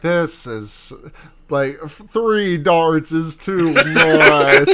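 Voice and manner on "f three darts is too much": laughing quote. Retold or imitated. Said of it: "and is like".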